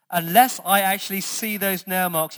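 skeptical insistence. Retold or imitated. Preacher voices doubting Thomas demanding evidence, skeptical insistence. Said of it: "he's just a bit skeptical".

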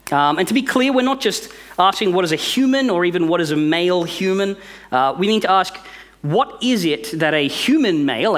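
a pastor building a sermon with force; preaching. Real, not acted. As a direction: drive the questions home to the congregation.

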